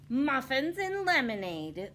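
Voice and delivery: slow, drawn-out words; said slowly. A narrator's reading. Little Red answering the wolf, slowly. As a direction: take your time on each word. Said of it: "said slowly".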